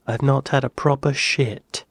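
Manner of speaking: put-on rehearsing a phrase in a British accent. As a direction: imitate a British actor's accent carefully. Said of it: "an American doing a British accent".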